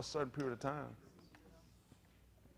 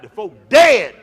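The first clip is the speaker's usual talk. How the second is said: very loud, punched-out holler; exasperated comic shout; 6 semitones higher, 22 dB louder, slower than usual. Acted. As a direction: holler it in mock disbelief. Mocking people who whisper near the dead.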